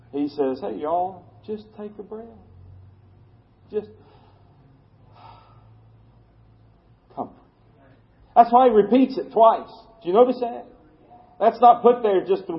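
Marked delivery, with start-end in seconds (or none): 0.6-7.3 much softer, lightly Southern hey y'all; a hint of Southern, gently soothing the flock; soft Southern God voice. Preacher voicing a Southern God calming his people, softly. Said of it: "God is Southern. He's from the South".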